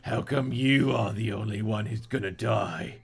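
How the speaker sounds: put-on Cockney threat; lightly acted Cockney villain. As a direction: do a menacing Cockney gunman.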